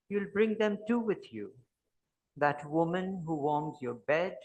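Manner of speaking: measured poem recital with pauses between phrases; poetry reading. Acted. Poet reading to an audience about a lover met after twenty years, measured poetry reading. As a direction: read it as verse, phrase by phrase.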